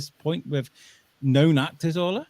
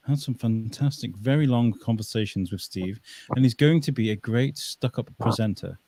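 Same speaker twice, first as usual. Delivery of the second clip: put-on posh accent; 3 semitones lower than usual. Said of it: "that's how Gareth talks".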